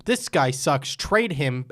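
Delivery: loud mock fan outrage. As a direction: parody of angry fans online. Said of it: "We need to stop immediately going to".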